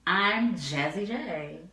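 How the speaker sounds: reluctant flat retake; deadpan repeat. Shown as a demonstration. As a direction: repeat it with the same dry face. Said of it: "just say how you just said it again".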